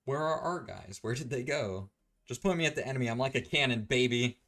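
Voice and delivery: high, loud gung-ho voice; hammed-up action bravado; mock battle eagerness. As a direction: play an over-keen fighter charging in. Acted eager fighter seeking the enemy.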